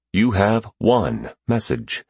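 slow, even machine announcement; automated voice. Acted. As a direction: read it like an answering machine. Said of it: "the automated voice said".

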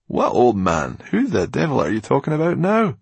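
loud, high, impatient demand; irritated outburst; exasperated. Acted. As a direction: demand an answer, out of patience.

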